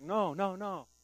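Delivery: loud, high frantic denial; panicked no; denying. Retold or imitated. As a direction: push the accusation away hard. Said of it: "Peter's like".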